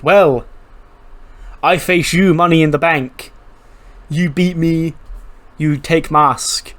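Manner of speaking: put-on a masked luchador laying down terms in a broken Mexican accent. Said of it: "in his broken Mexican accent".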